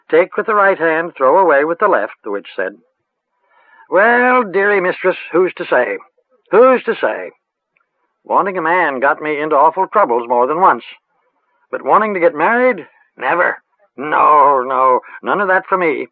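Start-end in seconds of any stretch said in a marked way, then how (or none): 0.1-2.2 lightly voiced rustic old witch; a hint of a cackly village crone, musing. A narrator's reading. 3.9-16.1 lightly voiced rustic old witch; a hint of a cackly village crone, musing. A narrator's reading.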